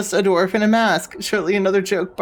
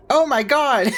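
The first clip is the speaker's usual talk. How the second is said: higher shocked outburst; surprised shout; 6 semitones higher than usual. Real, not acted. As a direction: blurt it out in shock. Shocked reaction to game.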